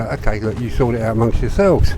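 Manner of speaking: lightly put-on South West London accent; a touch of would-be Cockney. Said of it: "In my best Cockney accent".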